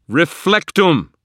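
high, drawn-out battle shout; shouted spell. Acted. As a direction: bellow the spell at the top of your lungs. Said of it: "I stood fast and shouted".

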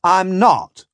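high, slow, emphatic protest; desperate cry. A narrator's reading. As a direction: swear it pleadingly. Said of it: "I cried".

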